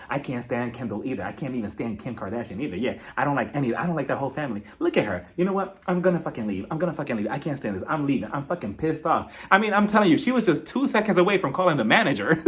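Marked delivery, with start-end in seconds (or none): 0.1-9.3 lightly imitated whispered griping; low, hushed muttering to friends; Kathy Hilton. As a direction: grumble it softly, as if whispering. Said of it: "she's whispering to Garcelle and Crystal".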